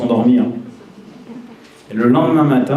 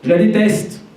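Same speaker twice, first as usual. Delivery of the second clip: high, resentful outburst; a patient's sudden resentful cry; bitter hatred; 8 semitones higher than usual. Acted. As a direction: spit it out like a hurt child. Patient voiced in role-play.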